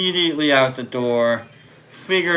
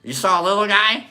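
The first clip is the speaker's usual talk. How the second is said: Larry David interrogation; 3 semitones higher than usual. Retold or imitated. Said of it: "I'm Larry Daviding these".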